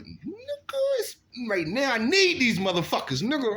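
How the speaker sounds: high, pushy ask for the guns; urgent eager demand. Retold or imitated. To his cousin on arrival, eager high demand. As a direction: press your cousin hard for the guns. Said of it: "I'm like".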